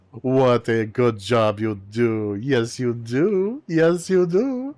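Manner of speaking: slow, drawn-out pet talk; stretched-out babying praise, rising at the end; doting praise. Acted. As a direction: coo it slowly like to a puppy.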